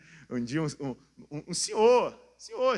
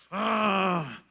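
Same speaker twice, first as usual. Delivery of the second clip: long, higher-pitched "ah"; lioness cry; 5 semitones higher than usual. Acted. Preacher showing how a brave woman should be, lioness cry. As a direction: let out a drawn-out lioness cry.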